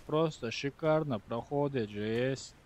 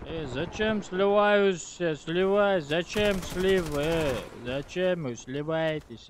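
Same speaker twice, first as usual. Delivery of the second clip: raised, exasperated scolding; annoyed yelling; 4 semitones higher, 5 dB louder than usual. Real, not acted. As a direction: tell the team off loudly. Scolding teammates who run.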